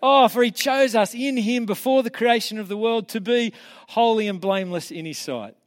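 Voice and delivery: a proud, slowed scripture recital after recalling it; triumphant recitation. Shown as a demonstration. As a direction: declaim the verses with rising joy. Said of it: "give you a few verses".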